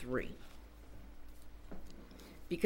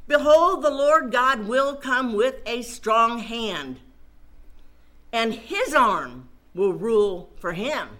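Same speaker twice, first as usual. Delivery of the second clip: loud ringing "Behold" then a steady proclamation; preaching scripture; 4 dB louder than usual. Acted. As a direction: announce it like a herald. Proclaims the second passage.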